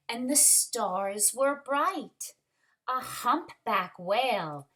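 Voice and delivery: put-on lively read-aloud for children; story reading. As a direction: read it like a picture book to the class. Story narration continues.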